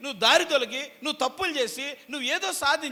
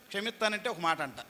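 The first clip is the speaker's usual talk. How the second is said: ordinary delivery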